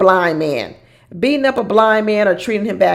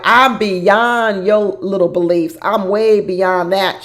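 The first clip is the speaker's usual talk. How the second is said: mock lofty; slower than usual. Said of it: "And she was like".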